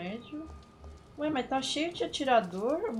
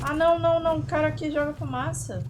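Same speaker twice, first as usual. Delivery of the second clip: loud, high, alarmed; alarmed shouting; 6 semitones higher, 10 dB louder than usual. Real, not acted. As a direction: shout it in a panic. Alarmed by smoke attack.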